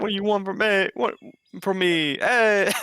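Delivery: high, loud New York guy; hammed-up New York gripe; New York accent. Shown as a demonstration. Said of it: "callback phrase".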